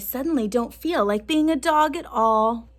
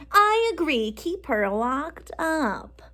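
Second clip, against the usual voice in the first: grumbled with mouth full; 5 semitones higher, slower than usual. Acted. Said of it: "grumbled Missus Gobblecracker".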